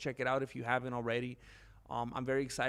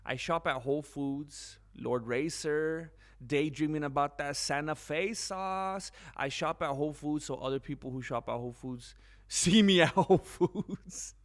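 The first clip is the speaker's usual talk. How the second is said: mock smug shopper; 3 dB louder than usual. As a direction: ham up a smug Whole Foods snob. Mocking a commenter's persona.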